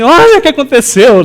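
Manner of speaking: high and loud, thrilled; happy excited. Retold or imitated. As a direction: burst out with joyful news. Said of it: "Toda feliz". (alegre e empolgada)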